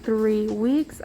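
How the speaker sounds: speaking through a face mask; muffled voice behind a mask. Real, not acted. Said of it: "I'm sorry if I sound muffled, I am wearing a mask".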